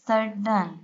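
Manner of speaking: "सडन" in two beats, सड and डन; divided into syllables. Shown as a demonstration. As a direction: separate the syllables of "सडन" at the double d. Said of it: "Look at this". ("सडन" को दो हिस्सों में: सड, डन)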